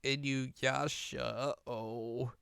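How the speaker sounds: soft, slow, fading "uh-oh"; quiet dread. Retold or imitated. Rin realising Inuyasha is demonized, soft and uneasy. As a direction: let it drop to a worried hush. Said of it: "So she's like".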